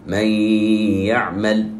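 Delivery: من يعمل merged with a nasal hum; nun hummed into the ya; merge with ghunna. Shown as a demonstration. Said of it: "ولا نقول".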